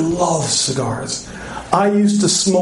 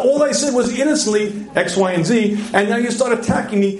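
higher-pitched mock protest; defensive husband; 5 semitones higher than usual. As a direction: protest innocence like an attacked husband. Acts husband feeling attacked.

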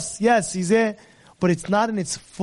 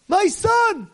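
anguished cry; 10 semitones higher than usual. Acted. Father sees son alive.

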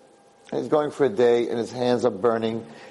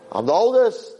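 boastful eldest son; 9 semitones higher than usual. Acted.

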